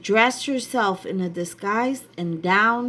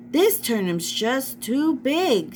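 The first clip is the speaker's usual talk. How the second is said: Snow White; 5 semitones higher than usual. Acted. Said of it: "she said".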